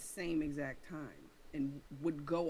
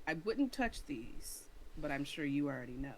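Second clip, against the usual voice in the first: smirky. Acted. Player teasing the woman about the eyes, smirky. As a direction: say it with a knowing smirk. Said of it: "I say that in a smirky way".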